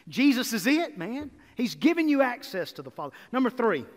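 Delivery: carried away with the good news; getting excited. Real, not acted. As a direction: let real excitement lift the voice as you proclaim it. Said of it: "I'm getting too excited".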